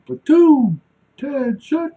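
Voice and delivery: imitated sergeant shouting the order; drill command. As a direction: call the platoon to attention across the yard. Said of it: "call us to attention".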